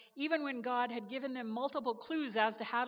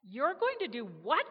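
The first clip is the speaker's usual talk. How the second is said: louder, stunned outburst of disbelief; shocked disbelief; 3 semitones higher, 7 dB louder than usual. Acted. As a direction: blurt it out, staggered. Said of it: "Gabriel gawked".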